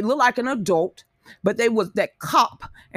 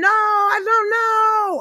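piercing, very high, drawn-out acted wailing scream; 12 semitones higher than usual. Retelling what a man being forcibly held and jabbed screamed, retelling a scream. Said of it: "he just screaming".

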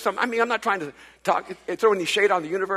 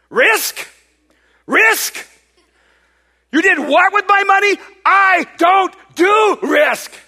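outraged yell, shrill, very loud, slow, drawn-out; 11 semitones higher, 11 dB louder than usual. Retelling an overheard phone call in New York, imitating a man yelling. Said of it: "a guy yelling on the phone".

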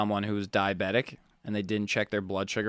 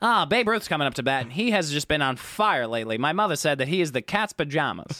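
put-on old-timey, old-fashioned voice; 6 semitones higher, 4 dB louder than usual. Prompted by a co-host to say it, the speaker does the old-timey voice. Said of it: "Say it".

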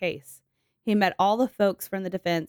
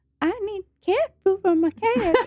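very high, slow, drawn-out creepy cat lady voice; 13 semitones higher, 4 dB louder than usual. Joking about the creepy lady in the apartment complex: imitating a creepy cat lady. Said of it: "creepy lady in the apartment that's like".

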